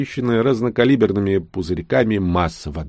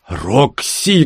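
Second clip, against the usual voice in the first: capricious pout; 4 semitones higher than usual. Acted. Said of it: "капризно выгнул губы Пив".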